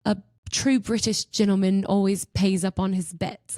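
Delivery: imitating an Englishman's accent; British accent. Englishman concedes the bet he lost, in a British accent. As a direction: put on a British gentleman's accent. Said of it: "in his accent".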